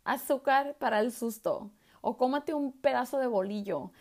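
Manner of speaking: a hint of the aunt handing out a remedy; aunt prescribing sugar for the fright, lightly voiced; aunt's remedy voice. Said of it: "guess what she gave me".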